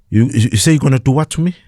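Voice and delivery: defiant challenge. Retold or imitated. Speaker defying hijackers who threaten him, fast high challenge. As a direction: throw their threat back at them, fast and high.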